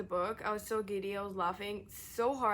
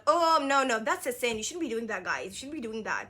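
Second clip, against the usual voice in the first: mock scolding; 2 semitones higher, 4 dB louder than usual. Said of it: "I'd be like".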